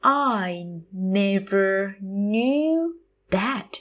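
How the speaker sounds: long "I never knew", pause, then "that"; slow teacher model of "I never knew that"; very slow, drawn out. Shown as a demonstration. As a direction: stretch every word of "I never knew that". Teacher repeats phrase slowly.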